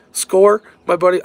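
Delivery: excited. Retold or imitated. Finding an abandoned fishing rod.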